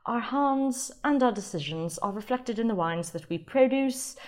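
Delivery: reading the winery's website in a mock British accent. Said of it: "I'll stop the British accent".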